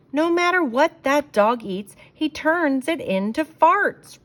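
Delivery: father roaring in frustration. A narrator's reading. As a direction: bellow it out like a fed-up dad. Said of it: "roared Father".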